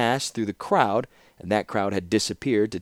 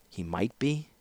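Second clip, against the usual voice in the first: soft, grave echoing question; solemn questioning; 3 semitones higher, 5 dB quieter than usual. Acted. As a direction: echo it back gravely. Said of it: "said Tokasia solemnly".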